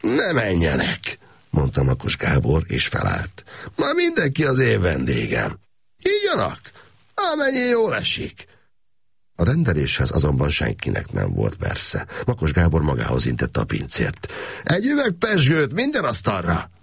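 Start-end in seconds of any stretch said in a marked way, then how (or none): 0.0-1.2 slow, high lordly refusal. Acted. Gábor telling the waiter guests stay, lordly. 3.8-8.5 high, expansive host's announcement; grand host. Acted. Gábor inviting the whole restaurant, grand host. 14.6-16.7 high expansive call to the waiter; grand order. Acted. Gábor ordering champagne for all, grand call.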